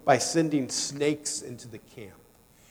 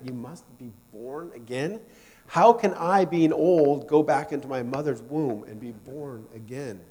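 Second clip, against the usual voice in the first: puzzled Nicodemus. Retold or imitated. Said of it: "imagine Nicodemus hearing that".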